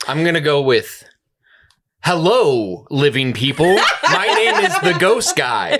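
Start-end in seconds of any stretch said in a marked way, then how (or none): 2.0-5.8 ghost voice. Pretend. Joke guess at ghost voice.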